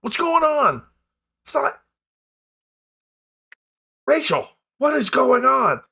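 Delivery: high, confused voice through fog; muffled voices. Acted. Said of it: "you hear muffled voices".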